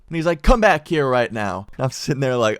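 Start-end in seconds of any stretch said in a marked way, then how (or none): 0.4-1.7 louder, sharp command; angry order. Retold or imitated. Cop ordering the defiant teen back, loud command. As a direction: snap him back to the car.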